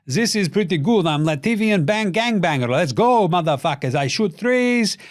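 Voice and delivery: a lightly put-on Latvian accent, cocky; mock Latvian accent. Porzingis bragging after threes, in a mock Latvian accent. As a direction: brag in a hammed-up Latvian accent. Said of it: "what the fuck was that accent".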